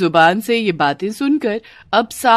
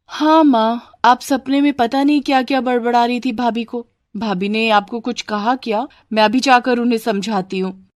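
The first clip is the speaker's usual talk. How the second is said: lightly voiced, slightly raised girl's part; concerned daughter; 5 semitones higher than usual. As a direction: offer to sort it out for mother. (हल्के से निभाई बेटी)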